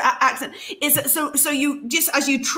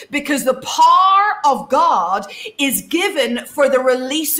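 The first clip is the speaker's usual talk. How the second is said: preacher's declaring cadence; rousing proclamation with punched words; preaching. Acted. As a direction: proclaim it to the church like a sermon. Prophetic declaration to congregation.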